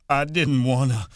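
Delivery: high, loud, distressed wail; crying out. A narrator's reading. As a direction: wail it like a frightened child. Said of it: "Lenny cried".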